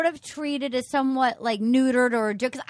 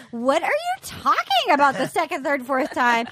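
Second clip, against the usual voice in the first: baffled woman. Retold or imitated. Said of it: "And she's like".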